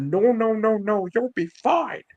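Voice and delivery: high-pitched mock reassurance; imitated reassuring mentor. Mentor calming a worried wrestler, high imitated reassurance. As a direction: brush the worry away in a high put-on voice. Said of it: "And you said".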